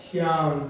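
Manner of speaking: श्याम with a held आ; stretched श्याम; prolonged vowel. Shown as a demonstration. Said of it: "अधिक समय लगता है उसमें".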